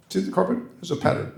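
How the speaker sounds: put-on high, swallowed English accent; Berlin imitation. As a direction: mimic a mumbling Oxford don. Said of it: "I'll try to".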